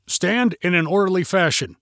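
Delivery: mildly stern, in-character order; lightly voiced trooper trying to sound stern; stern stormtrooper. Stormtrooper ordering park visitors, mildly stern. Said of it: "to sound stern and stay in character".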